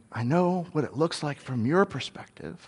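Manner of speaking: reassuring. Acted. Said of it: "He's saying".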